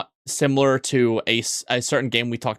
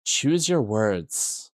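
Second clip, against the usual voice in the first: very slow mock British warning; a hint of a British accent, slow and menacing; 3 semitones lower, much slower than usual. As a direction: say "Choose your words." in a slow, clipped British threat. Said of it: "your voice became more British".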